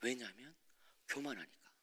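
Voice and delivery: low near-whisper repeat; almost breathe the words; very quiet. Retold or imitated. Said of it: "잠잠히 이렇게 말씀하시는".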